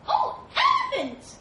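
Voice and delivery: very high, slow, loud sing-out; calling out. A narrator's reading. Animals calling to the elephant on the bridge, high hail. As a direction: hail someone across a ravine. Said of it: "He heard his name called out".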